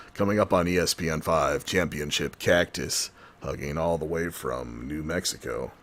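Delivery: low, mock TV sports announcer voice; a hint of a cable sports promo.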